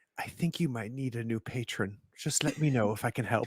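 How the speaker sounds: offhand, casual side remark. A player's character speaks to Ori, muttered under breath. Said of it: "just under my breath go".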